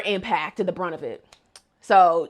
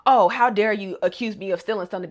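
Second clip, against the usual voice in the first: mocking indignation; faster than usual. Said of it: "You can't be just like".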